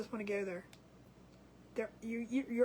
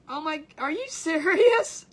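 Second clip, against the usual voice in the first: surprised; 3 semitones higher, 9 dB louder, slower than usual. Real, not acted. Reacting to a viewer comment.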